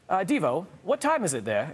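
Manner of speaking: lightly attempted British accent; terrible British accent. Host quoting Tom Hiddleston from England, terrible British accent. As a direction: have a bad go at a British accent, creeping in late. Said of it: "that was a terrible accent".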